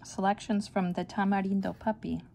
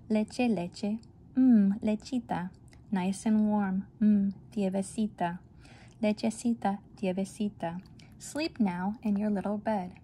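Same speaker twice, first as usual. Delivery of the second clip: lullaby. Acted. Parent reading a lullaby to a baby, soothing. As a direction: soothe a baby toward sleep.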